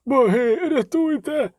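high-pitched panicked exclamations; terrified cry. A narrator's reading. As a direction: cry for rescue in terror. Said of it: "крикнув провідник, бліднучи".

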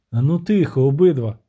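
mildly angry order for silence; angry shout. Acted. Witcher silences prince and captain, mildly angry. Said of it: "гнівно крикнув Геральт".

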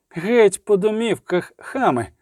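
high, drawn-out order, mildly shouted; commanding shout. A narrator's reading. Sorceress driving the mob back home, commanding mild shout. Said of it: "крикнула вона".

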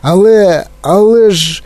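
high, stammered protest; alarmed cry. A narrator's reading. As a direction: stretch out a horrified objection. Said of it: "закричав дідунь Джо".

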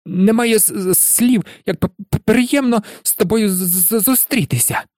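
high-pitched nervous stutter; jittery professor struggling through a greeting; Quirrell. A narrator's reading. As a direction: stammer on the first consonant of words. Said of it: "затинаючись, вимовив професор Квірел".

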